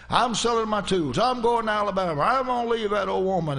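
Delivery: put-on defiant drunk boast. Drunk husband telling John he'll leave, defiant. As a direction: toss it off like a tipsy braggart. Drunk man announces he's leaving.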